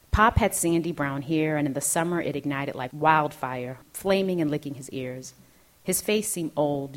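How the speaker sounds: measured, deliberate literary narration; memoir reading. A narrator's reading. Author reads childhood memoir to an audience, measured narration. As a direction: read it as a composed author's reading.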